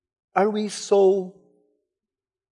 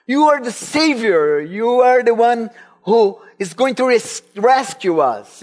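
fervent proclamation; 4 semitones higher, 4 dB louder than usual. Retold or imitated. Peter declares Messiah.

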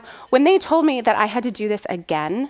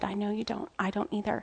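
soothing; 9 dB quieter than usual. Retold or imitated. Mom answering her scared son, softly soothing. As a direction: imitate gently comforting a child.

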